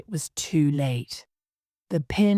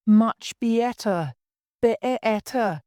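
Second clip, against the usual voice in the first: much higher, slow, climbing with each word; rising higher and higher; 8 semitones higher, 3 dB louder, slower than usual. Acted. Queen assuring Alice her finger is better, climbing higher and slower. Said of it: "her voice getting higher and higher".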